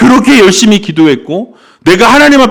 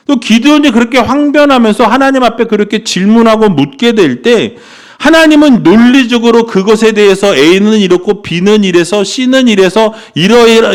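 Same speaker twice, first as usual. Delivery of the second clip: ordinary delivery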